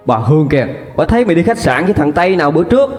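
high, fast, shrill-edged accusing wail; a mother crying and railing at her daughter; wailing tirade. Acted. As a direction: scream the shame back at her. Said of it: "vừa khóc bà vừa tru tréo".

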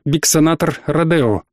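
ordinary delivery, nothing marked

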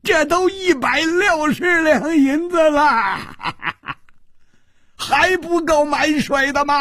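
high, loud outraged shout; stammering roar at full pitch; furious bellow. A narrator's reading. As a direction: explode in strangled disbelief. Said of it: "大喝道".

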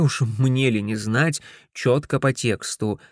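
plain reading voice

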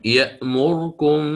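يأمركم with the damma on the ra snatched short; quick vowel snatch. Shown as a demonstration. Teacher demonstrating the snatched vowel to students. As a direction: say يأمركم slowly but clip the vowel on the ra. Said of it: "فيقرأ".

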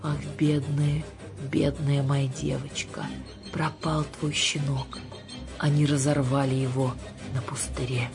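understated doleful witch; mock-sorrowful lament. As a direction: draw out the pity with slow solemnity. Witch laments the torn puppy.

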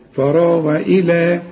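إلى with the long vowel drawn out slowly; prolonged vowel. Shown as a demonstration. Teacher to student: the drawn-out مد in إلى. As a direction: stretch إلى on connection. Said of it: "وهتمد بقى عند الوصل".

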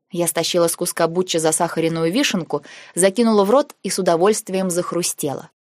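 usual speaking voice

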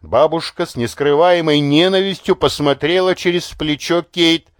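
plain reading voice

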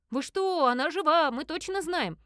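loud, high protest; shouting over each other. Acted. The girls cry out to the investigator, shouting. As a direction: yell it out in disbelief. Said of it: "наперебой завопили они".

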